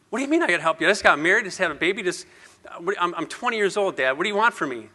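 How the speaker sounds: retold exasperated comeback; exasperated retort. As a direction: protest as a put-upon son. Retells arguing back at dad.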